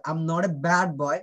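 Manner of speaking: "bad" with a drawn-out open æ. Shown as a demonstration. Teacher models for students, "bad" with long æ. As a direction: lean on the middle vowel of "bad". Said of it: "মাঝখানে কি হচ্ছে".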